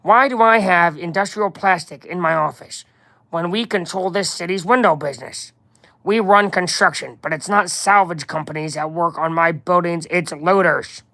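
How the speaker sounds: indignant crime-boss character voice; put-on boss voice, demanding answers; Kingpin. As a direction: carry on as the affronted mob boss. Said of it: "You guys like my Kingpin voice?".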